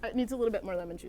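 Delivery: talking while chewing; words round a bite of salad; mouth full. Real, not acted. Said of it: "you just got your mouth full".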